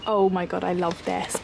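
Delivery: ordinary delivery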